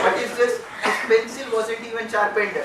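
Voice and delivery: lecturer scolding. Retold or imitated.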